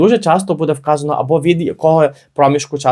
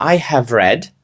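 slow read; slower than usual. Shown as a demonstration. Teacher reads English example.

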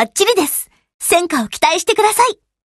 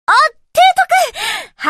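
startled, high-pitched call; happy surprise; 12 semitones higher, slower than usual. Acted. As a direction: spot the admiral and pipe up. Startled greeting on spotting the admiral.

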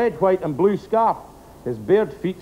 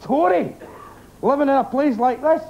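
shouting; 8 semitones higher than usual. Acted. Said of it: "and shouted".

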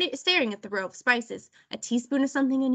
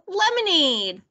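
high, delighted cheer; excited squeal; 7 semitones higher, 3 dB louder, slower than usual. A narrator's reading. Lulu cheers for the lemonade, squealing. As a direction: cheer it high, then let it fall. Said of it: "squealed Lulu".

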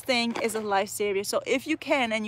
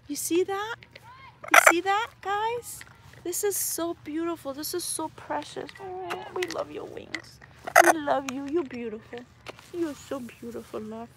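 cooing pet talk; 6 semitones higher than usual. Real, not acted. Cooing at her macaw.

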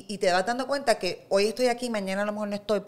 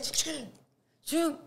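imitated shaking; 7 semitones higher, 5 dB quieter, slower than usual. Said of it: "Y eso hacía".

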